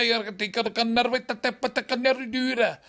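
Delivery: slow Glaswegian drawl; slow, drawn-out Glasgow voice; Glasgow accent. Retold or imitated. Glaswegian magician addressing the crowd in a slow Scottish accent. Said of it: "apparently he was from Glasgow".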